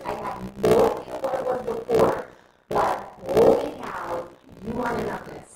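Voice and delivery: bubbling over about the income plan; excited pitch. Retold or imitated. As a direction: sell it like you just discovered it. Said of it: "I started saying".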